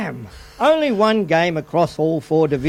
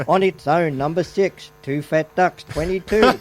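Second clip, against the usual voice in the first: bingo caller; 5 semitones lower than usual. Pretend. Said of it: "go to Saturday afternoon bingo".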